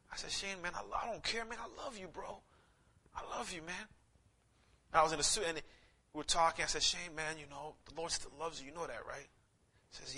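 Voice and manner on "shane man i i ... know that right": put-on softer, gentle reassurance to an old friend; tender comfort. Pastor consoling fallen friend.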